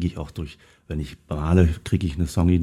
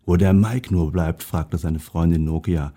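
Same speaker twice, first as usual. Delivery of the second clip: lively storybook reading; reading a story to an audience; story narration. A narrator's reading. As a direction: read the tale aloud, animating each animal's lines. Reads a Christmas story aloud.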